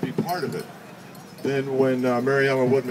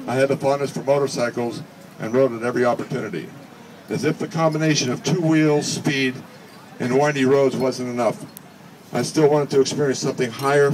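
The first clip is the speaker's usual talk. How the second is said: reading Roger's speech. Acted. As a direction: deliver his friend's words with measured dignity. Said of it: "I would be Roger's voice".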